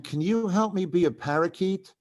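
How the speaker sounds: a hint of a girl asking a favour; girl's voice. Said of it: "I hear a girl's voice".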